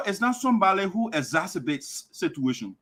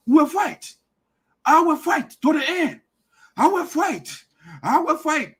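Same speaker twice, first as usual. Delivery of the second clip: mock war cry; 6 semitones higher, 4 dB louder than usual. Mocking rival's war cry.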